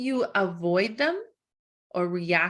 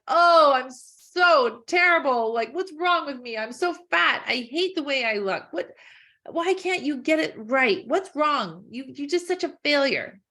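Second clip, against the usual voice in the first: mock self-criticism, a little higher; self-loathing; 4 semitones higher, 3 dB louder than usual. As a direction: berate your own reflection. Voicing harsh self-criticism at mirror.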